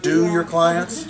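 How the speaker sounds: slow, questioning "clients" with a rising tune; stress on clients. Shown as a demonstration. The stylist asks the crowd, slow with a rise on "clients". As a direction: lean on "clients" and let it rise. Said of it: "You know what I mean by that?".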